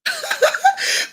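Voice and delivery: a real, high laugh bursting out; high burst of laughter. Real, not acted. Host laughing at a viewer's comment, high real laugh.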